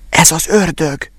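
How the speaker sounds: put-on slow, hushed little boy's warning; frightened apprentice boy. A narrator's reading. The apprentice warns his master about the devil, hushed and slow. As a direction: let the boy's fear slow every word.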